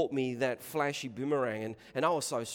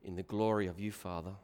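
low, soft prayer voice; solemn prayer; 9 semitones lower, 13 dB quieter than usual. Real, not acted. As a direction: pray quietly and humbly, with pauses between phrases. Closing a prayer before the talk.

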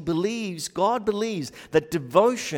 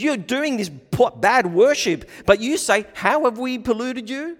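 mocking rebuke; 8 semitones higher, 7 dB louder than usual. Voicing God's charge.

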